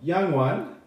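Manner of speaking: stagey elf putting off an interrupter; high elf speaker. Acted. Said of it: "Devlo looks at you and he says".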